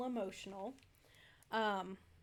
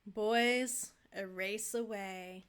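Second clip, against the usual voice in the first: calm, understated menacing mafia boss; lightly voiced game villain. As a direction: mobster taunting the trapped detective, lightly menacing. Voicing the game's mafia villain.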